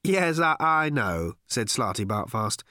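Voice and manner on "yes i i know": flustered, stammering, out of breath; breathless and agitated. Acted. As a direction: rush it out, breathless and worried. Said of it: "breathless and agitated".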